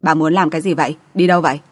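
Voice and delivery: plain reading voice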